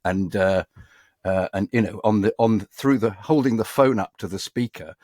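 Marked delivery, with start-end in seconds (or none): none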